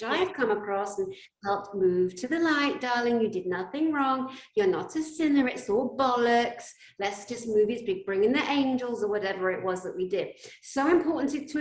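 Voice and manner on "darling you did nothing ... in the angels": gentle reassurance. Retold or imitated. Reassuring a spirit to move on.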